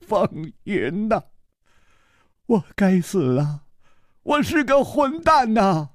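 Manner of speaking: a touch of sobbing, trailing to a whisper; crying. Acted. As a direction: lament through tears. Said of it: "他痛哭着说". (痛哭着说)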